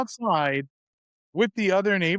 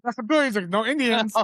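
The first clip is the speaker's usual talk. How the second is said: pleased neighbor; 5 semitones higher than usual. Retold or imitated.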